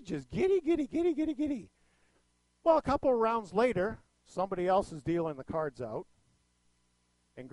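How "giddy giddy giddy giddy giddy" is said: high, bubbly mock giddiness; giddy glee. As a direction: imitate her bouncing with glee, high-pitched. Acts out grandmother's gleeful giddiness.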